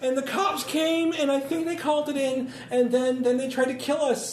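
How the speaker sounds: panicked. Acted. Panicked character telling the shooting.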